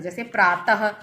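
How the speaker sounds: प्रातः ending on a breathy h sound; visarga demo. Shown as a demonstration. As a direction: close प्रातः with a clear h. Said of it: "ह की आवाज़ आती है".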